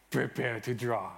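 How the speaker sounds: a hint of a Spanish accent, Inigo style; mock Spanish swordsman line, lightly done. Shown as a demonstration. Speaker closing his Inigo intro in a faint Spanish accent. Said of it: "I'm gonna do the, the Spanish, uh, accent".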